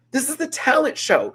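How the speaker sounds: high, loud exasperated exclamation; mock outrage. Real, not acted. Repeats it, escalating in mock outrage.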